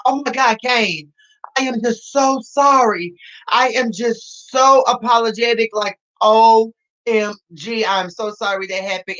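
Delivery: a lightly voiced, gushing apologetic man; mock gushing apology. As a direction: ham up his apology, slowing on "O M G". Imitating Womack's apology.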